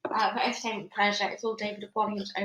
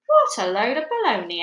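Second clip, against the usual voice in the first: loud announcing; 2 semitones higher, 6 dB louder than usual. Acted. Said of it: "announced Ruth".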